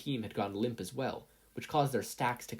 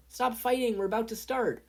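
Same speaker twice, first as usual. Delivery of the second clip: put-on higher, louder, scolding girl; stop fighting; 12 semitones higher, 5 dB louder than usual. A narrator's reading. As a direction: break up the squabble sharply. Ochako breaking up a fight.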